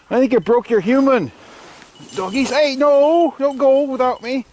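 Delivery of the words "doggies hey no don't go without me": don't leave me, call them back; calling after dogs. Real, not acted. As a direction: dogs running off without her. Dogs running off after fall.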